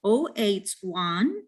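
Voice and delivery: slow "Oh eight one", zero as the letter O. Shown as a demonstration. Teacher showing how zero is said, slow "Oh eight one" with O. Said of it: "we can say O".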